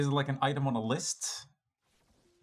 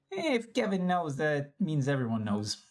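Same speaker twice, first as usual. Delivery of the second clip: put-on French accent; slower than usual. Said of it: "Everybody's French".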